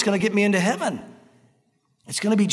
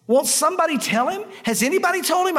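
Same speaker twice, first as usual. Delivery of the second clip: high-pitched pleading at the screen, without real volume; half-shouted mock frustration, pitch climbing; mock exasperated yell; 6 semitones higher than usual. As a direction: act out yelling at the TV. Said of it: "you just wanna yell at the screen".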